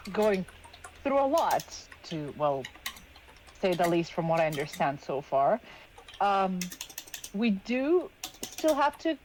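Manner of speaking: halting, careful with long pauses; hesitant. Acted. Player's character tactfully approaches someone grieving, hesitant and halting. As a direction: feel for the words, gently broaching it. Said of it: "not sure how to say the words".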